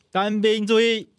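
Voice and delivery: drill command. Shown as a demonstration. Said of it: "我们可以来一小段就好。".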